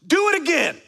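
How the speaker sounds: very high, loud challenge; booming mock tough-guy threat; Macho Man Randy Savage. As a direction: shout a wrestler-style dare, hammed up. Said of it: "Macho Man Randy Savage style".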